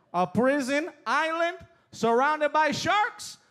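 dad's refusal. Retold or imitated. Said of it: "My dad was like".

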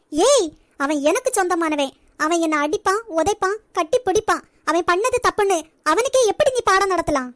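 jealous wife lashing out at the visitor; angry retort. Acted. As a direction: tell her off for lecturing him. Janani snaps at Maha.

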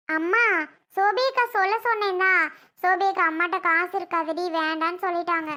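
put-on a small child telling tales on her sister; little girl voice. Little girl calls to mother.

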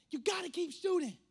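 high, loud, insistent chant; fired-up. Retold or imitated. Steph Curry celebrating in a clip, fired-up. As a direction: imitate a pumped-up player, shouting it out. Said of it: "And he says".

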